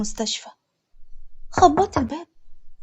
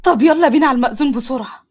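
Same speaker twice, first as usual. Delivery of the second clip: happy rush. Acted. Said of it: "جاسر بفرحة".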